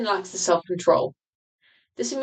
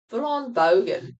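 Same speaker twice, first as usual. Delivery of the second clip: Australian accent; 2 semitones higher than usual. Shown as a demonstration. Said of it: "do the Australian accent".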